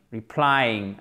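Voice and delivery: replying with the stress on PLY; stress on second syllable. Shown as a demonstration. Teacher showing learners the word, replying stressed on its second syllable. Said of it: "accent tonique sur la seconde syllabe".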